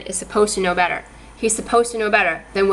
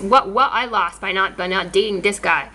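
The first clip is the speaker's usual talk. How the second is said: sarcastic. Real, not acted. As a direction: say it as sarcasm, mocking your own loss. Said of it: "Sarcasm alert".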